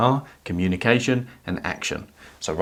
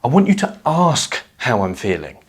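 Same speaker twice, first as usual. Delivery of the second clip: resentful overemphasis; 3 semitones higher, 3 dB louder than usual. Shown as a demonstration. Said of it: "tempted to verbalise it along the lines of".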